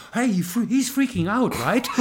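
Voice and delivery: amused at the fan going wild; laughing Mike. Retold or imitated. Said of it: "Er sagt".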